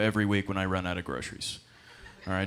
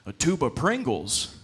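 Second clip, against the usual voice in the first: show host; 4 dB louder, slower than usual. Retold or imitated. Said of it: "they'll be like".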